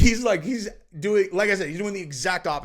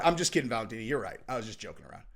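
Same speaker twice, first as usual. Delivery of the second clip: mock backpedal; 8 semitones lower, 6 dB quieter, much faster than usual. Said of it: "he's like".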